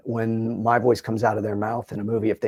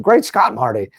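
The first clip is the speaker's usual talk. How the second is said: Doc Brown; 8 dB louder than usual. Shown as a demonstration. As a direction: burst out like the mad scientist. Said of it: "I got to play Doc Brown".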